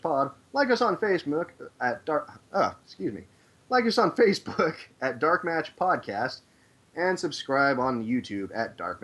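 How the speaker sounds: booming ring announcer voice; fighting game announcer. Acted. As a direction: announce it like a big fight night. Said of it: "I love your announcer voice".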